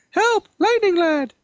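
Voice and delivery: high shouted plea for rescue; desperate cry for help. Acted. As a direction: scream for help at the top of the voice.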